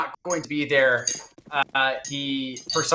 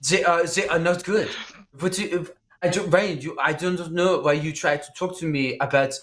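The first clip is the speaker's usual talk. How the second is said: put-on French accent. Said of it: "extremely stereotypical French".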